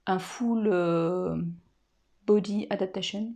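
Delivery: English words in a French accent. Real, not acted. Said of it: "avec mon magnifique accent anglais".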